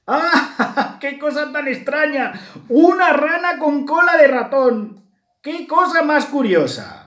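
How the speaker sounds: very high, loud laughing frog voice; guffawing. A narrator's reading. A passing frog guffaws at the mouse painted green, highly amused. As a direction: hoot with acted laughter at a silly sight. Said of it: "se reía carcajada de ellas".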